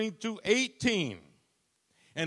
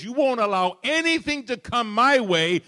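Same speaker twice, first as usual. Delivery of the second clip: fervent prayer; 6 semitones higher, 8 dB louder than usual. Acted. Preacher voicing a prayer.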